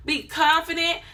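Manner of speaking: normal talking voice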